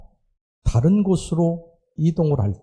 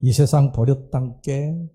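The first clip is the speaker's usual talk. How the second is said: slow, lightly imitated Jeolla speech; Jeolla dialect quote; slower than usual. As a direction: drawl it the Jeolla way. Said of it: "전라도 사람들은". (느린 전라도 사투리 흉내)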